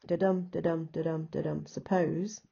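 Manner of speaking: even "da-dum" chant ending on "suppose"; light "da", stressed "dum", then "suppose"; iambic rhythm. Shown as a demonstration. Teacher correcting the last line, iambic rhythm. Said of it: "The last line, look".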